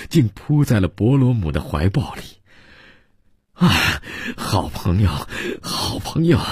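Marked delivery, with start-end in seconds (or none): 3.5-6.4 deeply moved. Acted. Exhausted guest falls into his friend's arms, deeply moved. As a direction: overcome with feeling, halting and rising. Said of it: "大为感动".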